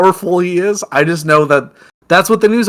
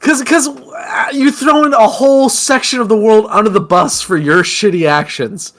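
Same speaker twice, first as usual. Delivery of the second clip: higher, raised voice, real outrage; angry shout; 5 semitones higher than usual. Real, not acted. Ranting at politician's excuse, real outraged shout. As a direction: vent real anger at him.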